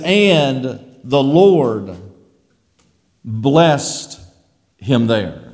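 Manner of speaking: "And the Lord", pause, "blessed", pause, "him there"; slow, weighty pauses around "blessed"; stress by pauses. Shown as a demonstration. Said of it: "put emphasis on different words".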